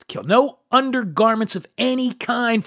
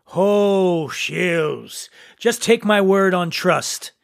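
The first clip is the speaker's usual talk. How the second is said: poem recitation. Acted. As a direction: recite it with mock gravity, line by line. Reads a Service poem.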